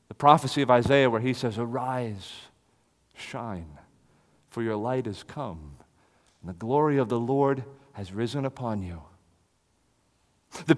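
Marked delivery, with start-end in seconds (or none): 1.6-9.0 soft reading. Acted. Reading Isaiah prophecy softly.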